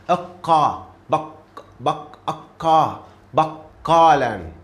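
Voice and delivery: Aqqa with a held, doubled qaf. Shown as a demonstration. Teacher shows students a doubled qaf, slowly. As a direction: press the qaf shadda in baqqalan. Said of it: "How did I pronounce qaf shadda?".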